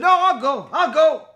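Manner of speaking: put-on a boy's eager shout of I'll go; eager volunteering. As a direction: jump in to volunteer. Son volunteers before everyone.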